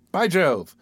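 sudden startled cry; exclaiming. Acted. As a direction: burst out in shock. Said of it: "exclaimed the gentleman".

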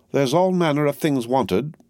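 bustling, bossy housekeeper; Miss Pross voice. A narrator's reading. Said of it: "said Miss Pross".

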